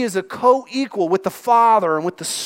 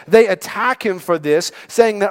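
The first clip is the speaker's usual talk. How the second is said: ordinary delivery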